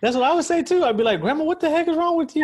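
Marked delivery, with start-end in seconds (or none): 1.2-2.4 high, laughing mock disbelief; mock-appalled. Imagining a reply to grandma's confession, laughingly appalled. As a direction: playfully scold through a laugh, pitched high. Imagined scolding of elderly patient.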